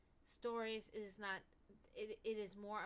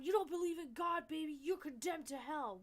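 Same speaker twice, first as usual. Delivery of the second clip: higher, louder mocking condemnation; mock preacher; 6 semitones higher, 5 dB louder than usual. Mocking believers condemning babies, sneering preacher voice. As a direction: sneer as a preacher damning a baby.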